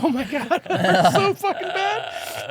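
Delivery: high, strained half-laugh through imitated pain; laughing pained groan. To the guys, recalling sitting up after the hernia operation, laughing pained whine.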